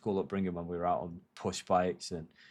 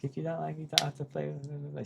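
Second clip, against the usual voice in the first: put-on high, softer whiny girl voice; mock girlfriend; 8 semitones higher, 6 dB quieter than usual. A boyfriend parodies his girlfriend's retort, high and sulky. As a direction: mimic her sulky retort, pitched way up. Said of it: "It's like".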